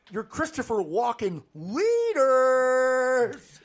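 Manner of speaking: mock introduction. Joking with co-hosts about Walken, drawn-out mock introduction. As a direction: stretch out the last word.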